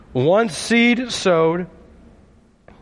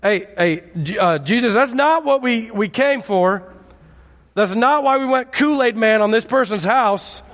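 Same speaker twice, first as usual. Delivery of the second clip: lightly voiced baffled friend, higher; a mild protest from the friends, pitched up; confused friends; 4 semitones higher than usual. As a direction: friends of the man on the mat objecting to Jesus, mild mock dismay. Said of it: "They're like".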